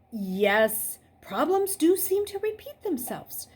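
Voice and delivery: untroubled. A narrator's reading. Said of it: "still sounding untroubled".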